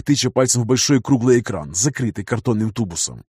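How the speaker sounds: ordinary delivery, nothing marked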